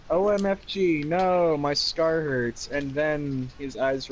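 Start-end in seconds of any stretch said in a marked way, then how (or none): 0.1-2.7 hammed-up pain. Acted pained outburst.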